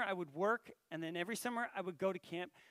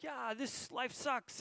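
slow, higher, dragged-out mock complaint; mock gloomy; 5 semitones higher, much slower than usual. Pretend listener confessing aloud, slow mock gloom. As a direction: drawl it out like an overdone sulk. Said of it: "I'm not looking for you to be like".

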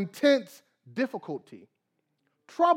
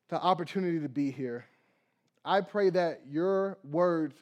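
prayer; 3 semitones lower than usual. Acted. Opening prayer before message.

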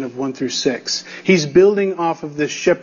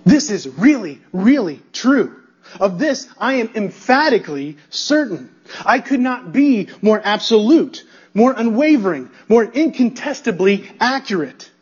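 emphatic certainty; 3 semitones higher than usual. Pretend. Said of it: "Instead, he says".

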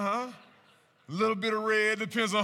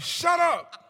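much higher, loud shout of shut up; exasperated shout; 13 semitones higher, 12 dB louder than usual. Retold or imitated. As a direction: yell at the friends to stop. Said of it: "I'm like".

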